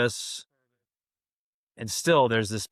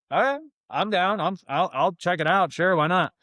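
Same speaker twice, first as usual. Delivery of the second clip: higher, keen and game; a guy gladly agreeing to a massage, higher and eager; eager yes; 6 semitones higher than usual. Retold or imitated. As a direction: jump at the offer. Retold eager agreement to massage offer.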